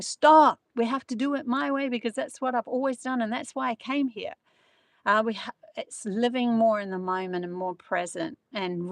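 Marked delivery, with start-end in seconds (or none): 0.0-4.3 sharp high shouted stop, then a raised bossy rant; a hammed-up shout of stop; mock shout. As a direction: play the stubborn friend yelling stop.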